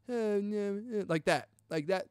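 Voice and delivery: weak, soft strained voice; showing how little voice is left; hoarse post-surgery voice. Shown as a demonstration. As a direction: talk like your throat is swollen. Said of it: "talking like this".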